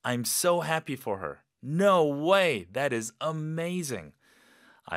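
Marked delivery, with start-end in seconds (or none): 1.6-2.7 excited. Shown as a demonstration. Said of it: "느낌 그대로".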